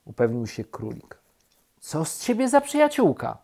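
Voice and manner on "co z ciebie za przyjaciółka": very high, squeaky complaint; indignant reproach. A narrator's reading. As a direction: accuse a friend in an offended high voice. Rabbit reproaches bear.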